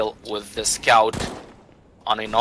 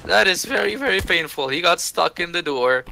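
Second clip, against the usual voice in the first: shocked caster call; 9 semitones higher than usual. Real, not acted. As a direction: react to the blunder. Player stuck in door.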